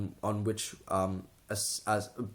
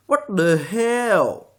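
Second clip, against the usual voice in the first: very drawn-out, incredulous Asian accent parody; loud, high Asian accent outburst; guttural mock Asian accent; 9 semitones higher, 9 dB louder, much slower than usual. Shown as a demonstration. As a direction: spit out "the" as a hard "duh", high and loud. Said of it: "very strong guttural sound that you can just spit out".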